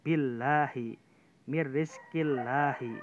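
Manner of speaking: billahi and Mirrizkillahi with a light, thin lam. Shown as a demonstration. Teacher contrasting thin lam examples for students. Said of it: "Tipis kan?".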